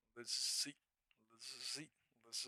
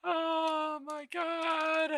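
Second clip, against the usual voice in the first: laughing; much slower than usual. Real, not acted. Still laughing, disbelief.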